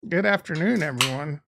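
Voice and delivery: hoarse, croaky greeting; rough throat before clearing it; frog in throat. Real, not acted. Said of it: "get rid of that frog in my throat".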